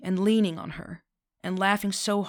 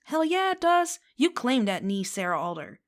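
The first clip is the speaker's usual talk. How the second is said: much higher and louder, elated cheer; inner scream of joy; 5 semitones higher, 5 dB louder than usual. A narrator's reading. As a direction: cheer it out like a fan at a game. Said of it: "Telly's entire body screams".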